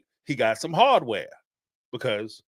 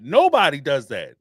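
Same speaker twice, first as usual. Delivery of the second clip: louder, punching it out; emphatic; 3 semitones lower, 5 dB louder than usual. Real, not acted. Ranting about reality stars crying on camera, emphatic and loud. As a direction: slam the point home.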